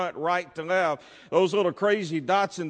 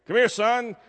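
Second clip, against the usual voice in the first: raised, commanding parent's call; disciplining parent; 5 semitones higher, 3 dB louder than usual. Retold or imitated. Preacher voicing his parents disciplining him, high stern summons. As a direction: summon the boy sharply, pitch up. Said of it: "when they were disciplining me".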